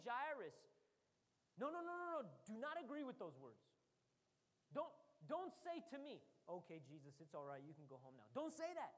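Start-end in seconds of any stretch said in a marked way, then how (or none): 1.6-6.2 insist, cut him off; urgent, raised protest; urgent pleading. Acted. Jesus urging Jairus. 6.5-8.3 a hint of a defeated father; resigned giving up.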